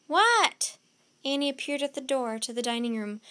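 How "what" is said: loud, high answering shout; startled, raised-voice question; calling back. A narrator's reading. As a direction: shout back in reply to a call. Annie answers the shouted call.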